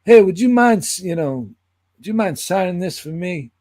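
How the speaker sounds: shy excited request; eager fan. Retold or imitated. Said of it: "he said".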